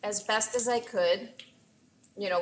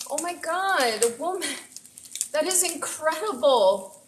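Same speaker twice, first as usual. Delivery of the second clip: higher, awed disbelief; amazed; 5 semitones higher than usual. Real, not acted. Streamer gushing about the raiding cook, high and amazed. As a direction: gush in delighted astonishment. Stunned by the raid.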